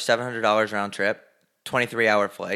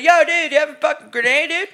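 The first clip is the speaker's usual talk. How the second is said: high, loud bro-soldier voice; hammed-up Bay Area soldier bro; mock soldier bro; 5 dB louder than usual. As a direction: play a dumb army bro asking for a grenade.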